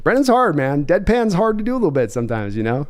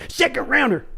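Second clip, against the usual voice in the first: jumps high on Second rounder in disbelief; Second rounder pitched way up, mocking; exasperated echo; 7 semitones higher than usual. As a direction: toss Second rounder back, incredulous. GM echoing demand, exasperated.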